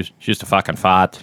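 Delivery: lightly imitated Boston accent, R dropped; bad Boston accent. Host quoting Good Will Hunting from memory, bad Boston accent. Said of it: "with the bad Boston accent".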